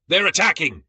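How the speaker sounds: high, loud panicked shriek. A narrator's reading. Soldier shrieking at the mosquito swarm, high and panicked. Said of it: "a soldier shrieked".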